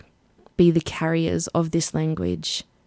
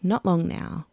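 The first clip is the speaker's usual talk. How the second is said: sighing. Retold or imitated. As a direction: let it out on a tired sigh. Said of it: "they'd sigh and say".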